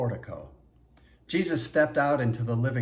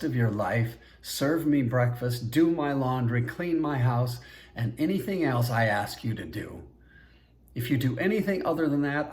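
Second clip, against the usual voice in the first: cold anger; 3 semitones higher, 3 dB louder than usual. Acted. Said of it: "all humor gone".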